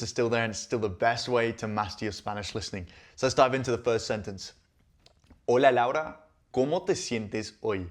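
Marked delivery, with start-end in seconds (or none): 5.5-7.9 slow model reading. Shown as a demonstration. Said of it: "Super basic, generic question".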